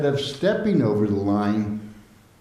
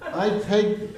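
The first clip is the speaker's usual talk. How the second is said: laughing; 10 semitones higher, slower than usual. Real, not acted. Laughing at the memory.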